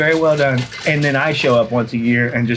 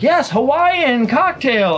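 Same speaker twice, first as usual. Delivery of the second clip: bartender voice; 11 semitones higher, much slower than usual. Retold or imitated. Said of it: "So he's like".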